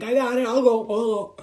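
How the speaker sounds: put-on young soul volunteering for the assignment; eager volunteer. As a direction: throw your hand up for the mission. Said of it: "You're like".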